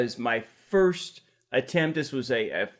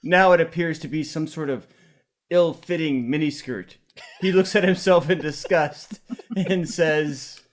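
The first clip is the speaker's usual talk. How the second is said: raised, amused narration over laughter; screenplay stage directions; 3 semitones higher, 4 dB louder than usual. Acted. Reading stage directions as the others laugh, raised dramatic narration. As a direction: read the action out with mock drama.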